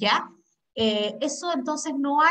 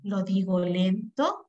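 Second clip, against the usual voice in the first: slow, drawn-out delivery to show importance; said slowly; 4 semitones lower, slower than usual. Shown as a demonstration. Teacher slowing down to show students how important words sound. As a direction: stretch each word out slowly. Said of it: "cuando yo quiero decir algo importante".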